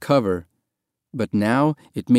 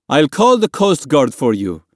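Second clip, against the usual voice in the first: raised, louder voice; calling out; 4 semitones higher, 5 dB louder than usual. A narrator's reading. Man in the dinghy to swimmers below, calling out. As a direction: call it over the water.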